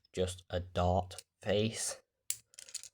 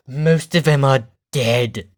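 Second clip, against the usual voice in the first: mock grim; 14 dB louder, slower than usual. Dark joke about engines.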